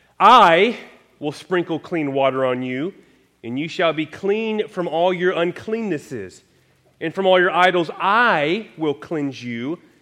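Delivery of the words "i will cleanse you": heavy stress on the word "I". Reading a passage aloud, italicizing with the voice, stress on i. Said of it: "I'm italicizing it with my voice".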